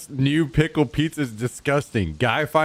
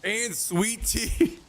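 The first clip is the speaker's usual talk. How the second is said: appalled disbelief; 8 semitones higher, 4 dB quieter, much slower than usual. Real, not acted. Appalled at food chat sent.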